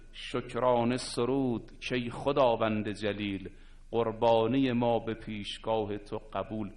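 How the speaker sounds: measured, drawn-out verse chanting; slow poem recitation. Acted. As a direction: lay each line out slowly like recited verse.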